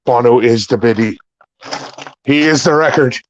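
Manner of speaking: ordinary talk, nothing marked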